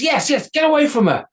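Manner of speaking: a tiny hero standing up; tiny Isamboshi. A narrator's reading. Isamboshi ordering the troll away from the girl, tiny high voice. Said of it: "tiny hero speaks".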